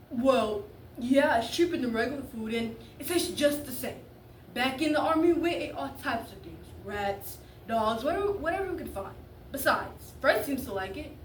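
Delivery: defensive ramble, pushed a bit loud. Acted. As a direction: talk your way out of an awkward spot. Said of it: "because he got defensive".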